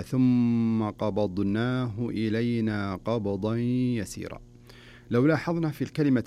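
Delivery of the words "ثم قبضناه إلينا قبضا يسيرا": recited verse. Shown as a demonstration. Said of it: "يعني في قوله تعالى".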